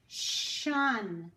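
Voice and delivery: "Shun" said alone as the last syllable; isolated ending sound. Shown as a demonstration. Teacher isolating the end of musician. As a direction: pull out "Shun".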